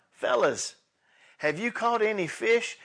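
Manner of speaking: called out loud and high across the water; cheerful shout from the shore; calling out. Acted. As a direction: hail them from the beach. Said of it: "And he called out".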